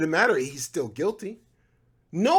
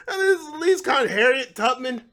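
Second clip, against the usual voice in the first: breaking up with laughter, pitch jumping higher; can't get the word out for laughing; 6 semitones higher, 3 dB louder than usual. Real, not acted. Host cracking up at his own joke, laughing high.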